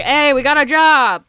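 high, playful call to the crew; excited announcement. Acted. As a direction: announce good news to a whole tavern. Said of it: "And I was like".

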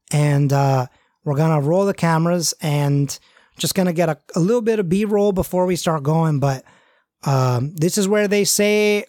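lightly voiced Midwestern ghost hunter; gentler northern rowdy guy. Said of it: "I'll do a little bit more gentle".

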